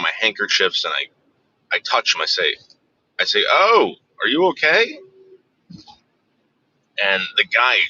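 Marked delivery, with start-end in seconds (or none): 3.5-5.0 high, gentle, worried call; retold gentle concern for the driver. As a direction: coax the dazed driver awake. Checking on the slumped driver.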